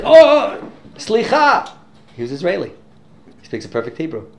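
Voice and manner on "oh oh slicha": high, loud startled "oh, oh"; flustered sorry, voice shooting up; startled apology. Retold or imitated. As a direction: jump as if caught off guard. Startled Israeli apologizing on plane.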